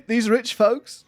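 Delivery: wrong voice. Acted. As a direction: slip into the wrong character voice. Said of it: "uh, wrong voice".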